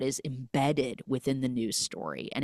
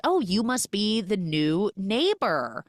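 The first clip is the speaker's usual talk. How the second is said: higher, friendly imitation of a welcoming neighbor; warm greeting; 6 semitones higher, slower than usual. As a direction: greet the newcomer with a drawn-out hello. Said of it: "someone has been warm to Micah".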